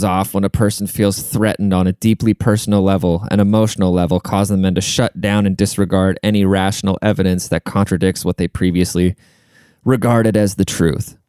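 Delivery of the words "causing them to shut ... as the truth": running out of breath while reading; breathless reading. Real, not acted. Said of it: "me just running out of breath".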